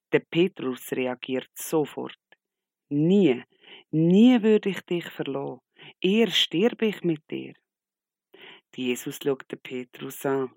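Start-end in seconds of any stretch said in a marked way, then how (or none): 2.9-7.5 laut und höher, voller Beteuerung; empörter Ausruf. Acted. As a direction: Petrus ruft seine Treue heraus. Petrus beteuert empört seine Treue. (Petrus beteuert Jesus laut und empört seine Treue)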